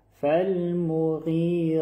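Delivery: فالمغیرا with a full heavy ra drawn out two beats; فالمغیرا ending in a long full ra; heavy stretched ra. Shown as a demonstration. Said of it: "اندازهٔ دو حرکت بالا کش شود".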